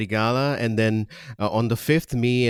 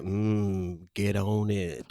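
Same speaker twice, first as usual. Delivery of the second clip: deep-voiced singer impression; 2 semitones lower, 6 dB quieter, much slower than usual. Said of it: "he's like".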